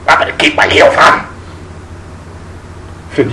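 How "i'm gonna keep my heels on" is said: whispered, seductive; sultry whisper. Retold or imitated. Twinkle teasing him in the bedroom, in a sultry whisper.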